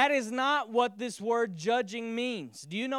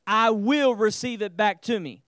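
call and response; 7 dB louder than usual. Shown as a demonstration. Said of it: "Somebody say".

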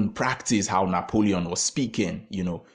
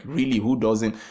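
surprised; 4 semitones higher, 5 dB louder than usual. Retold or imitated. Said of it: "he was surprised".

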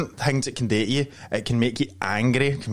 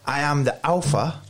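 mock alpha kid; 4 semitones higher than usual. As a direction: ham up a kid playing tough guy. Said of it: "he's pure copying Andrew Tate".

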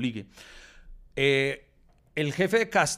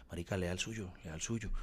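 hushed, softer urgent whisper; 5 semitones lower, 9 dB quieter than usual. Retold or imitated. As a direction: whisper it so nobody else hears. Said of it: "empieza Jader a susurrarme".

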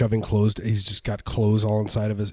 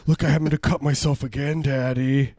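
put-on a bit higher, eager kid showing off; lightly voiced little kid; 3 semitones higher, 3 dB louder than usual. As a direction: report a cut to Daddy like a proud child. Voices his kid bragging.

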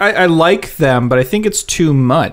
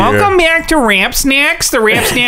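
podcast host voice; 6 semitones higher than usual. Pretend. Mock podcast intro.

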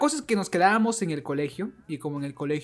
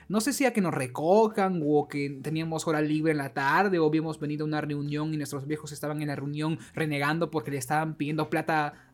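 rushing on without a breath; breathless rant. Real, not acted. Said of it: "Men, respira, respira".

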